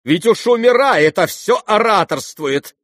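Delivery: high, loud exclamation of dismay; exclaiming. A narrator's reading. Mother exclaims at the dying orator, dismayed. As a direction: burst out half in horror. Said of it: "воскликнула Лизавета Прокофьевна".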